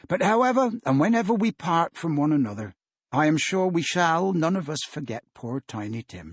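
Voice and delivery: put-on a father gently rallying his children; Bob Cratchit voice. Bob addresses the family.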